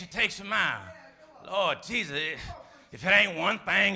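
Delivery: usual speaking voice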